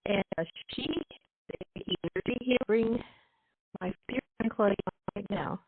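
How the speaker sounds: audio breaking up on a bad line; cutting in and out like a weak signal; choppy connection. Real, not acted. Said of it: "but you're very choppy".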